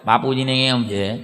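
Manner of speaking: put-on old uncle on phone. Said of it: "આમ, આમ રાખીને".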